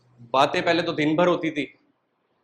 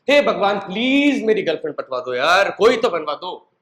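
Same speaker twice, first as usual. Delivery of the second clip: mock plea to God, a touch raised; pleading prayer; 3 semitones higher than usual. Lonely young man praying to God for a girlfriend, pleading. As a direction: beg heaven half in jest, like begging a buddy. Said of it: "मैं भगवान से pray करता था".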